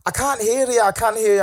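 high mock Scottish accent. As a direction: mimic a Scottish woman calling through a door. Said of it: "very Scottish accent".

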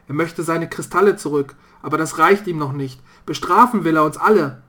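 grim father warning. Acted. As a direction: warn the family of the man outside. Vater warns of the black man. (Vater warnt seine Familie, leicht gespielt, eindringlich)

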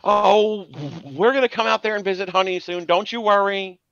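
high, doting New York Jewish mom; Yenta voice. Retold or imitated. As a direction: coo it like a Yenta. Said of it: "She goes".

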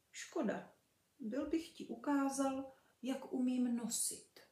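sad. Acted. The dog sadly tells the kitten it missed, mildly sad. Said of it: "řekl smutně".

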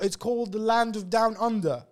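slow, drawn-out Australian accent. Shown as a demonstration. Host explaining down under: slow Australian accent. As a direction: savour down under like an Aussie tour guide. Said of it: "this is a British, uh, accent".

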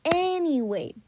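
slow, loud grating drawl; annoying voice. Pretend. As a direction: stretch every word to annoy. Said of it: "I'm gonna stop talking in this annoying voice".

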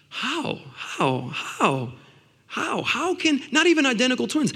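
hushed mock shout, pitch leaping about; retold amazed shouting. Preacher re-enacting shouting at God over fingerprints, a soft mock shout. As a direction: imitate shouting in wonder, but keep the volume down. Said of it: "I was over here shouting like".

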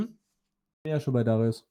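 slow and clear for a listener who missed it; slow repeat. Real, not acted. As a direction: say it again slowly, spelling it out.

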